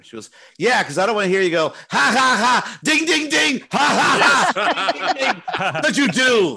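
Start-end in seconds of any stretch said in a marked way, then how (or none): 0.6-5.4 high, loud cackling ha ha ding; wife's clown impression. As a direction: ham it up like a clown. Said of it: "my wife's impression is".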